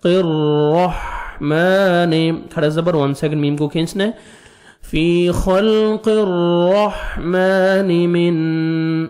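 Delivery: فی خلق الرح with a full, heavy doubled را; slow tajweed drill. Shown as a demonstration. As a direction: make the را in الرحمن heavy. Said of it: "را کو موٹا کرنا ہے".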